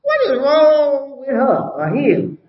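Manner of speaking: slow, mocking child's retort, lightly voiced; a hint of a bratty kid talking back; mock child yelling. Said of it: "you see the kids yelling".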